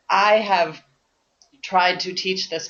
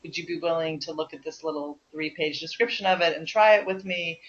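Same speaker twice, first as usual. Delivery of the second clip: gentle invitation; 4 dB quieter than usual. Retold or imitated. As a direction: float the idea gently, a little softer. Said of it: "I just gently said".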